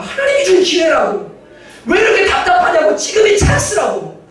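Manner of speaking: mock frustrated pleading, slowing at the end; mock exasperated urging. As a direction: pester him to seize the chance. People around urging revenge.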